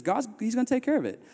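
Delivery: imitating the friend's easy calm. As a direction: shrug it off like he's certain. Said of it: "Jervis just calmly looks at me and says".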